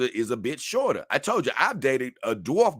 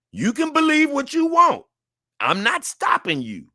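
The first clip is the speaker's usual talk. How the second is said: high, sustained playful machine tone; high sing-song mock robot; mock computer voice; 14 semitones higher, 5 dB louder than usual. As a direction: pretend to be a computer with a verdict. Mock robotic processing of instincts.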